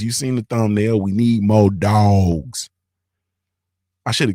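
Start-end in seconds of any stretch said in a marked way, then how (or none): 1.0-2.7 drawn-out slogan. Shown as a demonstration.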